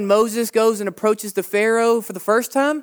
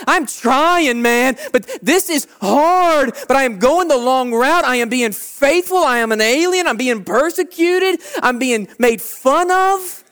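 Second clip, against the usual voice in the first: put-on higher, louder pleading teen voice, stretched out; voicing a struggling teen; 5 semitones higher, 4 dB louder than usual. Pastor voicing a teen who is mocked for faith, raised and pleading. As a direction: act out a worn-down kid who's holding on. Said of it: "you're like".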